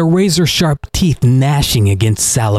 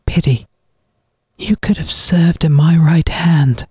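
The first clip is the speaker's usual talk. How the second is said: cold whispered menace; whispered threat; 7 semitones higher than usual. A narrator's reading. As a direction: breathe it out like a threat. Villain's quiet threat.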